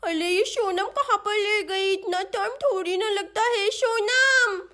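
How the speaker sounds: grumble, then holler the name at length; impatient little girl. Acted. Chinki waits for missing Sonam, impatient child voice.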